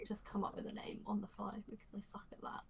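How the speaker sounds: whispering. Real, not acted. Player aside whispered.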